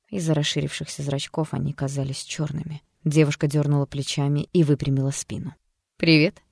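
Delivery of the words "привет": louder, cocky new persona greeting; a different, bolder voice. Acted. Alter personality greeting the doctor, defiant. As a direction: greet like a stranger wearing her face. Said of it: "Голос стал несколько выше, увереннее".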